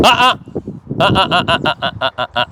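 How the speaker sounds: high warning "uh-uh"; correction noise. Real, not acted. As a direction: tell her no with sound. Marker noise to correct dog.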